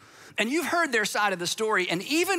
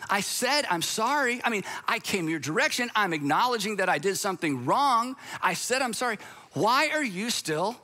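indignant apologizer; 3 semitones higher than usual. Retold or imitated. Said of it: "indignant apologizer quote".

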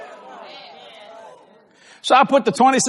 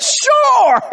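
retold reply; 6 dB louder than usual. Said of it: "I said".

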